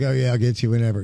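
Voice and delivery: tossed-off and quick, lightly careless; mock flippant. Promoter mocking a careless reply to artists, quick flippant. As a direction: brush them off, lightly and fast. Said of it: "you just can't be flippant".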